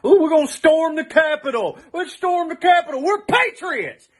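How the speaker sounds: loud mocking imitation of would-be patriots; mock rallying cry. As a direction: parrot their battle cry with scorn. Mocking the Capitol rioters.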